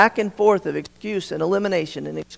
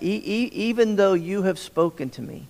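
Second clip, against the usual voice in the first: stumbling repeats on the first sound of even; stuttered start; 4 dB quieter than usual. Shown as a demonstration. Preacher showing how Moses stutters the words, halting restart. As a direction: trip over E-, e-, even before getting it out. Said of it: "notice that".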